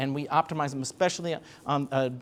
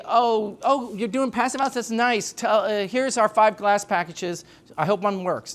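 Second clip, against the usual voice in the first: lightly acted, higher-pitched mock politeness; mock dismissive seller; 3 semitones higher than usual. Window seller fobbing off passive house client, lightly mocking. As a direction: play a slightly higher, offhand salesperson brushing someone off. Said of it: "So we don't say".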